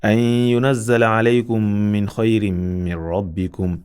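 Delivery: Tajweed recitation holding the emphasis; Quran recitation with emphasis. Shown as a demonstration. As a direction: recite correctly, holding the ghunna. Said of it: "we read it this way".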